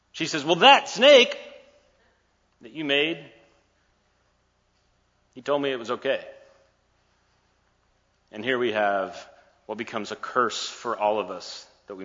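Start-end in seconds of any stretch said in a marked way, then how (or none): 0.4-6.2 higher and louder at first; a squeaky excuse passing the blame; whiny blaming Eve. Acted.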